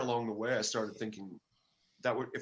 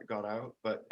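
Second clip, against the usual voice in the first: ordinary talk, nothing marked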